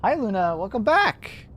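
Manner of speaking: high, sweet pet voice. Real, not acted. Streamer greets pet cat in high cooing voice. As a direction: coo at the cat.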